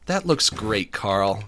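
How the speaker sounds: patronising praise, dropping on the name; Jimmy. Acted. Jimmy praising Carl's drawing, talking down as to a toddler. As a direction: talk to him like a toddler. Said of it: "it's like he's talking to a toddler".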